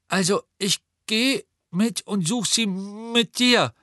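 put-on high, slow boy's voice, firm; Neville, refusing to be left behind; determined Neville. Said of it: "sagte Neville entschieden".

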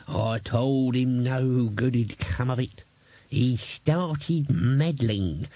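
put-on old man giving up, complaining; grumbling old man. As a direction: grumble while hunting for her.

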